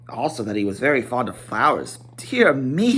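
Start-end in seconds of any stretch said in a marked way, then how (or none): 2.1-2.9 a lightly higher fussy hobbit; mild dismay; Bilbo's voice. Acted. Bilbo fretting about Gandalf, lightly higher. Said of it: "he went on".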